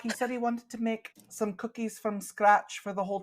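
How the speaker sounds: put-on Scottish accent. Shopkeeper continues in voice.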